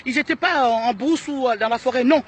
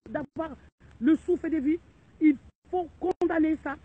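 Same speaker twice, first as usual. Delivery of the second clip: furious demand; 3 semitones higher, 6 dB louder than usual. Real, not acted. Outraged woman demanding punishment of the culprits, furious shout. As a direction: demand it now, furious and loud. Angry appeal to Congolese people.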